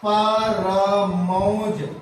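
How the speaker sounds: परमौज said very slowly, syllable by syllable; slow, drawn out. Shown as a demonstration. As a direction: stretch out परमौज so the class hears each part. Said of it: "तो इसमें क्या हो जाएगा?". (परमौज को बहुत धीरे, एक-एक अक्षर अलग करके बोलें)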